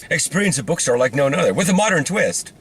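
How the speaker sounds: lightly mocking promotional voice; parody ad read. Joking about a Portland bookstore, mock ad read. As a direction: spoof a marketing slogan.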